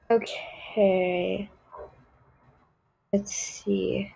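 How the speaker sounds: lightly voiced spoiled snob, mostly her own voice; a picky diva turning up her nose at everything; Tiffany Prada. A spoiled girl judging everything in the game, lightly voiced snobbery. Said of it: "my little skit of Tiffany Prada".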